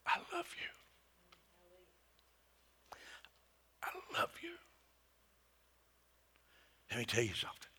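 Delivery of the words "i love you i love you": a tender whispered I love you; grace-filled whisper. Shown as a demonstration. God whispering to a weary believer, hushed. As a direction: whisper it like God's own voice. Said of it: "grace-filled whisper".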